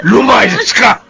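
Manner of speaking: papataas at palakas na galit na sigaw; galit na pagpapalayas. Acted. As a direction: sigawan siyang umalis. Father throws daughter out. (galit na ama na nagpapalayas sa anak)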